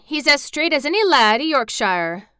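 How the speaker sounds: emphatic Yorkshire lad's cheer; excited cry. A narrator's reading. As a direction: cry it out with pride. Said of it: "cried Dickon".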